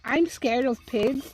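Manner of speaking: talking around an ice cube; words muffled by ice in mouth. Real, not acted. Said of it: "an ice cube in my mouth".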